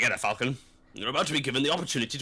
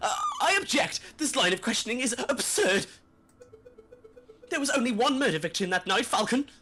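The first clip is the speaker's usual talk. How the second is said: very high, stammering, flustered voice; 11 semitones higher than usual. Playing a prosecutor objecting to a line of questioning: stammering courtroom objection. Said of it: "Miss Monsieur?".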